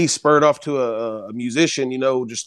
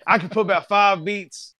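laughing; 5 semitones higher than usual. Real, not acted. Repeats it laughing.

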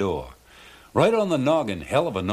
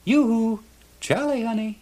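much higher, sing-song coaxing call; pretty mermaid voice; 13 semitones higher than usual. A narrator's reading. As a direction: tease him like a flirty little mermaid. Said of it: "the same sweet voice says".

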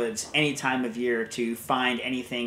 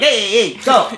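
loud urging calls at a dog; hammed-up shouts to get the dog running; half-mock yell of hunters egging on a dog; mock Italian dog handlers; 8 semitones higher, 9 dB louder than usual. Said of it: "They're like".

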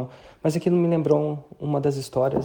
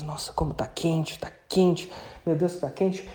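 lightly imitating forced delight at the heat; mock pretending it's warm; 3 semitones higher, 3 dB quieter, slower than usual. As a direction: fake cheerfully that it's hot. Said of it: "tem uma galera que entra e faz".

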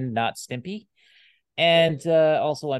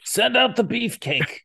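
high squeaky voice; 12 semitones higher, 4 dB louder than usual. Acted. Echoing the joke, laughing.

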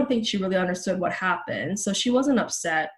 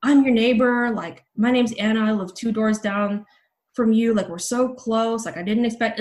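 flustered pleading; 3 semitones higher, 4 dB louder than usual. Retold or imitated. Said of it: "I was so stunned".

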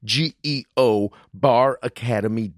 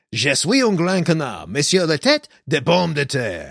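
bad French with an American accent; American stumbling through French; foreign accent in French. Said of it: "are you speaking in tongues".

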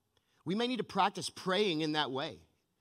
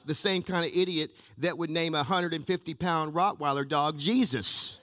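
laughing punchline; 3 dB louder than usual. Acted. Parrot's punchline.

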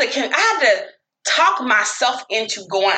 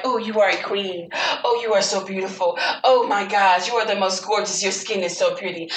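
softer, lower, gushing compliments in a badly faked African accent; 3 semitones lower, 4 dB quieter than usual. Dikembe flattering his date, badly faked African accent. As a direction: coo it in a failed African accent. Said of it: "I can't do an African accent".

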